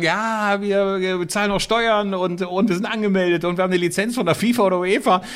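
smooth agent voice. Retold or imitated. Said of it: "Die können heute sagen".

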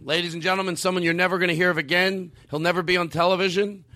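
mock late-night host announcing a guest; talk show host intro. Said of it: "treat it like if you were on the Tonight Show".

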